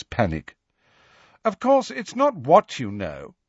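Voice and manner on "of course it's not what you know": higher, mildly loud boast; loudly showing off. A narrator's reading. Malfoy tells cronies outside Potions, mildly loud boast. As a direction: let others overhear, voice pitched up. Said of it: "heard to tell Crabbe and Goyle loudly".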